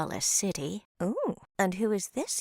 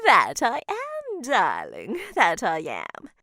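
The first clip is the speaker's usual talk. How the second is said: playful, drawn-out admission; amused teasing; 5 dB louder than usual. Acted. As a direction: savor the tease, amused. Witch admits teasing.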